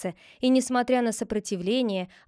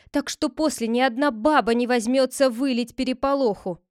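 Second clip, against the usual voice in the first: higher, louder fearful pleading; frightened plea; 4 semitones higher, 4 dB louder than usual. Acted. Villagers describe the hideous faces, frightened. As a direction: plead with horror in it.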